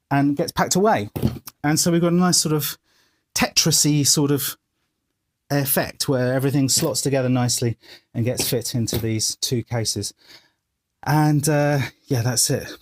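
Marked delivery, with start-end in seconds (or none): 5.5-12.8 slightly out of breath, breathy talk. Real, not acted. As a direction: talk while catching your breath. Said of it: "I'm quite out of breath".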